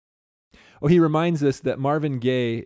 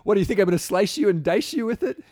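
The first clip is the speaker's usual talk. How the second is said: mock menacing laugh; 9 semitones higher, 3 dB louder, faster than usual. Joking mock threat.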